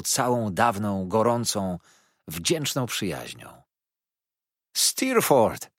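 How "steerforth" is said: raised, higher-pitched call of a name. A narrator's reading. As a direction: call out to an old friend, louder and higher. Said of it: "zawołałem". (wołanie podniesionym głosem)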